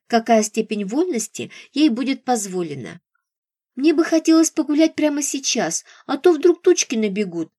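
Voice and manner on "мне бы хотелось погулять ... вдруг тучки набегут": pouty, whiny little voice; capricious girlish. Acted. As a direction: pout and whine like a spoiled girl. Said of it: "капризным голоском и надула губки".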